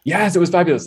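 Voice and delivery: high-pitched gushing mom; imitated gushing praise. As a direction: gush like a proud mother, playfully imitated. Retelling mother's gushing praise.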